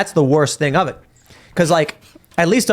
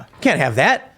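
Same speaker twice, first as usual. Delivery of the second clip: mock farmer; slower than usual. Farmer voiced in analogy.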